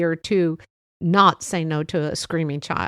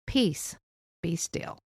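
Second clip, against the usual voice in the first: calmly; 2 semitones lower, 5 dB quieter, slower than usual. Retold or imitated. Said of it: "very calmly".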